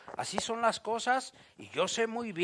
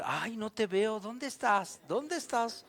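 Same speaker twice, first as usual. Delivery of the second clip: mock seeking. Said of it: "Como los niños".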